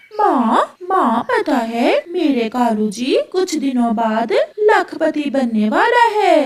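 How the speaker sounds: Gori the crow. Acted. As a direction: crow daughter, excited then whiny and pleading. Gori pleading with her mother. (माँ से मिन्नत करती, रुआंसी कौवी)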